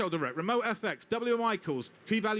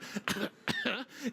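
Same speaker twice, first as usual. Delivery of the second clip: mock cough; 3 semitones higher, 4 dB quieter than usual. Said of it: "If you wouldn't mind coughing".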